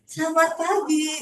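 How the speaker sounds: bright cheerful greeting, slowed a little; smiling voice. Shown as a demonstration. Trainer showing tellers a smiling greeting. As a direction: greet the client with a smile in the voice. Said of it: "Terus ngomong nih".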